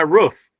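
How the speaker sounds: roof with the short vowel of 'book'; imitated Michigan roof. Teasing Bruce about his dialect, imitated short-vowel roof. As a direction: say roof short, rhyming with 'hoof'. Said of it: "you said you were working on your roof".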